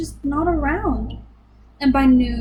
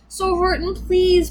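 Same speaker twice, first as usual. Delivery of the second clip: higher, lightly voiced little mayor begging; pleading mayor; 6 semitones higher, slower than usual. A narrator's reading. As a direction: plead gently for help. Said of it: "pleaded that voice of the mayor's".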